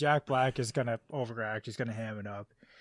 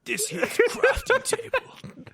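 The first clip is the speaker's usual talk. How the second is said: slow, much higher mock Australian accent; 4 dB louder, slower than usual. Cohost imitating Jack Black's slipping Australian accent, slow and high. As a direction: drawl it out in a hammy Australian accent. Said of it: "like, an Australian accent?".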